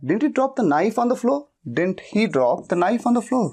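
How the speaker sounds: slow, deliberate dictation pace; slow model sentence. Shown as a demonstration. Teacher dictates the model sentence to students, slow and clear. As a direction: read it out word by word for learners. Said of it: "इस तरह से English बोलते वक्त अक्सर कहा जाता है".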